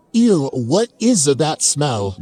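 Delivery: drawn-out mild disgust, slowly voiced; a creature's slow, offended "ew". Creature sniffing the narrator like questionable fruit, mildly disgusted. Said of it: "it made the most disgusted noise".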